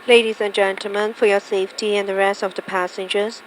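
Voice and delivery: cabin announcement. Real, not acted. Crew PA seatbelt announcement.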